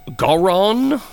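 "Garon" drawn upward as if asking; unsure pronunciation. Real, not acted. Host guessing at the guest's last name, unsure pronunciation. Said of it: "I think is how you pronounce his last name".

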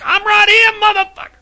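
high, cocky mock taunt. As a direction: taunt him like a brat on speakerphone. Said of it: "Mike's like".

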